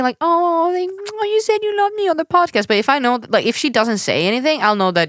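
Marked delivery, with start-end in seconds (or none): 0.2-2.7 high excited squeal; excited friend. Retold or imitated. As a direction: gush like a thrilled friend. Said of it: "she will say".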